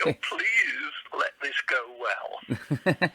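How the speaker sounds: slow, half-laughing anxious prayer; mock worry, drawn out; nervous plea. Nervous performer's inner plea.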